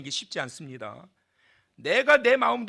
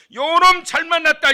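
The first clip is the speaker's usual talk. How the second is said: much higher and louder, a gleeful snarl; gloating threat; 10 semitones higher, 11 dB louder than usual. Pretend. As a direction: crow over a caught enemy. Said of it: "어떻게 해요?". (원수를 잡은 듯 높고 크게 외치는 "요놈 잘 만났다")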